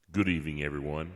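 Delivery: half-sing a pompous accusation; softly crooning a grandstanding speech; mock speech. Steve's recorded soliloquy imitated.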